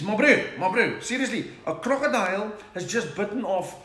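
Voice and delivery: loud high panicked yelp; panicked shout. Acted. Dutchman to his friend after the croc bite, panicked shout. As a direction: yell it like your foot just got bitten off.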